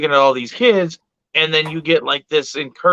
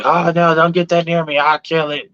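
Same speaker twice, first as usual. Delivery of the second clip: imitating a frightened adult, lightly; mock scared; 3 semitones higher than usual. Adult at kids' reptile party, scared. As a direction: act out a half-hearted panic. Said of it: "Like, I'm scared".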